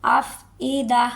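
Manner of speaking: افئدہ slow with crisp hamza, no ain; clear hamza. Shown as a demonstration. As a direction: stop cleanly on the hamza. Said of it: "حمزہ کو حمزہ واضح کر کے پڑھیں گے". (حمزہ واضح)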